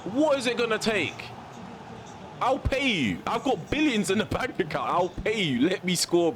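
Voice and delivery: high, mock-desperate offer of money; mock pleading bribe. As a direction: plead half-jokingly with the referee. Mock bribing the referee.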